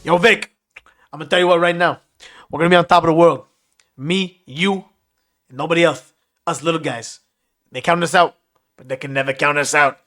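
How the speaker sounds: gruff gangster pep talk voice; Penguin impression. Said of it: "that was my Penguin impression".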